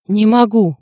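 sudden anguished cry; Dronго cries out in despair. A narrator's reading. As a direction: shout it out in breakdown. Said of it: "вдруг крикнул он".

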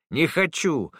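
put-on a boy wailing even harder; crying boy. A narrator's reading. Boy Samat refusing the toy, crying harder. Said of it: "пуще прежнего залился Самат".

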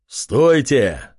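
mild shout. Acted. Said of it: "раздался крик вождя бурых кентавров".

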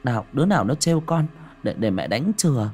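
giọng mẹ cao hơn, dỗ dành; nựng con đang khóc. Acted. (người mẹ nựng con gái, giọng dỗ dành)

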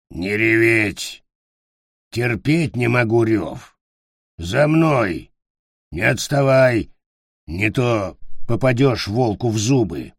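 slow, grumpy goblin orders; lightly voiced goblin bossing the child; gruff goblin. Goblin voice in story.

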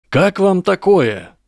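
high, slow call to the crowd; loud announcement. A narrator's reading. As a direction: propose it loudly for all to hear. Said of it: "громко начал Гарри". (громко объявить)

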